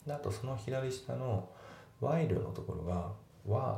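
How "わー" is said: "わー" as while cut down to a long wa; reduced while. Shown as a demonstration. Teacher showing how while is pronounced, reduced "わー". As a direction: drop the l, just "わー". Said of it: "っていう感じで発音".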